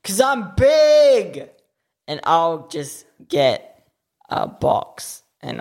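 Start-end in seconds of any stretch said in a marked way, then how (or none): 0.0-1.5 boastful exclaim. Real, not acted. Boasts about his size.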